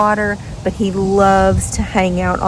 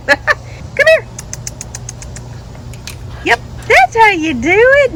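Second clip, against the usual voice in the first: excited praise; 13 semitones higher than usual. Real, not acted. Praising dog, laughing.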